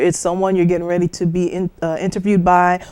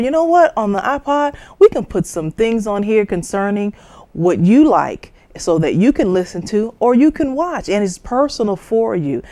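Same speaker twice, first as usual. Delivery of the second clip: coaxing explanation; 2 semitones higher than usual. Shown as a demonstration. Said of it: "bring it to their level".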